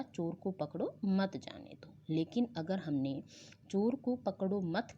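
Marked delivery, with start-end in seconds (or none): 0.0-1.9 "चोर को पकड़ो", short break, "मत जाने दो" as one; comma pause after पकड़ो. Shown as a demonstration. Teacher reading the corrected sentence, comma pause between "पकड़ो" and "मत". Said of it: "के बाद अल्प विराम का प्रयोग किया जाता". 3.7-5.0 slow "चोर को पकड़ो मत", stopping after "मत"; comma after मत. Shown as a demonstration. Teacher showing the changed meaning, "पकड़ो मत" grouped before the comma. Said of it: "के बाद अल्प विराम का प्रयोग कर दिया".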